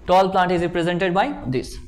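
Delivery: very slow, each word spaced for note-taking; slow dictation. Shown as a demonstration. Teacher dictating a definition to the class, very slow and spaced. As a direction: read it out slowly like dictation so students can write it down. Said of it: "student answer dictated slowly".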